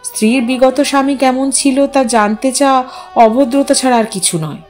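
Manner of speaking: ordinary delivery, nothing marked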